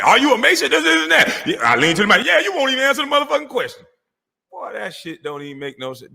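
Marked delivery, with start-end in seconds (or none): 0.0-3.9 high, fast mocking squeal of the caller; squeaky hammed-up mimicry of the caller; mocking impression. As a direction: mimic him like a whiny kid.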